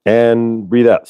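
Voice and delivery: slow, calm breathe-out cue; slow breathing cue. Shown as a demonstration. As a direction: draw it out gently. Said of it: "So breathe in".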